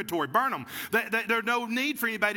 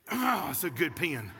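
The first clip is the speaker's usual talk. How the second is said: admiring sigh; 5 semitones lower than usual. Shown as a demonstration. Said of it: "You want me to do it again for you".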